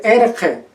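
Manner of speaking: erje said with back-throat friction; throat fricative. Shown as a demonstration. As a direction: rasp the j in erje. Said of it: "no van a poder decir".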